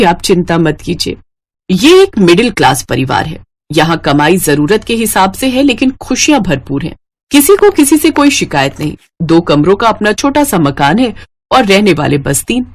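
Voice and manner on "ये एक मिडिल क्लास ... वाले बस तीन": calm storyteller's narration; story narration. A narrator's reading. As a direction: narrate the family gently, like a tale. Narrator describes the family. (कहानी सुनाने वाला अंदाज़)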